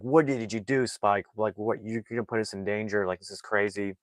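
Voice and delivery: mom freaking out. Retold or imitated. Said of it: "she's freaking out".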